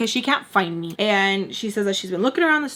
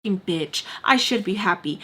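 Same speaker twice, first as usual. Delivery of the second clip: dry, understated sarcasm; mock self-blame in an even voice; sarcastic agreement. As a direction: concede everything without meaning a word. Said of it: "not picking up on the sarcasm".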